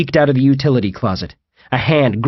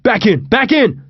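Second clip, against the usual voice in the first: high urgent cry, higher on the repeat; urgent command; 11 semitones higher than usual. A narrator's reading. John sending friends back through the door, urgent command. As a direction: urge them to retreat at once. Wrong destination, John urges retreat.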